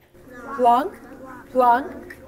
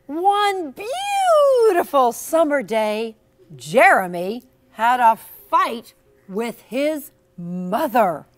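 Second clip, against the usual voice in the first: slow, loud, dramatic storybook read; reading to children; 3 semitones higher, 8 dB louder than usual. A narrator's reading. Teacher reading the book to the class, dramatic and loud. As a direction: ham up the story for the kids.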